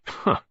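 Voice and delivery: short scornful huff of a laugh. A narrator's reading. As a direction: scoff it off with contempt. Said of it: "Desmond laughed scornfully".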